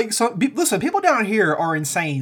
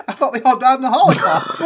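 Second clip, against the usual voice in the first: retold puzzlement; 5 semitones higher, 5 dB louder than usual. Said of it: "He's like".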